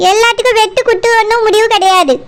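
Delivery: crying shout of protest; tearful outburst. Acted. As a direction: yell it through tears. Wife scolds brother's violent talk. (அழுகையுடன் கத்துதல்)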